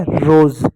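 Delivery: "रोज" with long O and a Z ending; O vowel. Shown as a demonstration. Teacher blending the spelled letters, "रोज" with long O and Z. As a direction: blend R, O and Z into "रोज", final E silent. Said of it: "ओ का ओ की मात्रा पढ़ेंगे".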